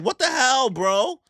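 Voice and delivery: high, loud outraged shout; shocked yell. Retold or imitated. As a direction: yell it like you can't believe it. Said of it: "And Loki's like".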